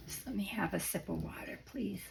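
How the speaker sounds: croaky, raspy throat, half whispered. Real, not acted. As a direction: speak through a dry, croaky throat. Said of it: "Sorry for my croaky voice".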